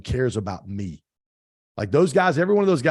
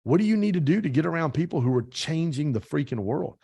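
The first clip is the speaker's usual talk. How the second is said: usual speaking voice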